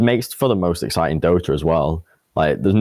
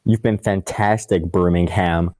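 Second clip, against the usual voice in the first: Cap impression. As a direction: mimic a host thanking the crowd, with a full "ham". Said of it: "Said Cap".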